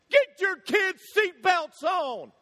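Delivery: high, loud, slow yell. Retold or imitated. Stranger at red light yells at the family, slow and loud. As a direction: bellow it from the next car. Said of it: "the guy started yelling".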